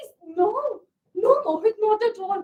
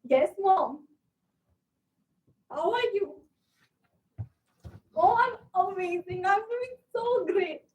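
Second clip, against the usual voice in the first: lower, holding back tears; fake cheerful, tearful; 3 semitones lower than usual. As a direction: pretend all is fine, voice cracking. Hiding trouble from mother on phone.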